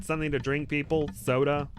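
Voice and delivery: lightly voiced Brooklyn host; Brooklyn accent. Shown as a demonstration. Wizard offering guests a drink, light Brooklyn accent. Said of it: "with a Brooklyn accent".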